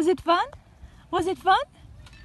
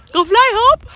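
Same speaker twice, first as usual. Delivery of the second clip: high, loud encouraging call; cheerful loud call to a pet; calling out to bird; 7 semitones higher, 8 dB louder than usual. Real, not acted. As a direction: call the parrot up into the air. Urging parrot to fly.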